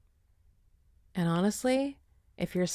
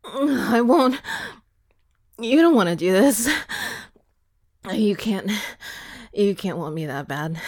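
defiant; 3 semitones lower, 3 dB louder than usual. Acted. Defying the attacker.

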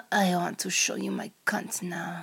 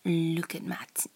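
put-on Russian accent; 3 dB quieter, faster than usual. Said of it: "in a Russian voice".

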